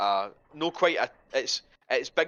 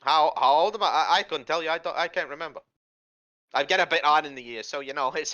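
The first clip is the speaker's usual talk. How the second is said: higher-voiced forgetful hag; raised, hesitant hag voice; old night hag; 5 semitones higher, 4 dB louder than usual. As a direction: dodge the age question as an old hag.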